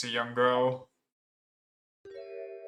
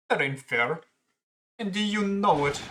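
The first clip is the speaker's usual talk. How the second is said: put-on higher, indignant girl voice; girl character; 6 semitones higher, 3 dB louder than usual. Girl arguing with the pawnbroker, higher voice. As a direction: push back higher, offended.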